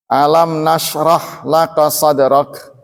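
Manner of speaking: Quranic recitation, slow and measured. Shown as a demonstration. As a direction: recite slowly, timing each sukun. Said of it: "latihan untuk mengukur panjang durasi". (tilawah perlahan)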